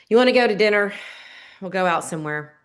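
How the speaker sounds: agree, but let the reluctance leak through; reluctant tone. Retold or imitated. Wife offering dinner to husband, grudging tone. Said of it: "It's the tone".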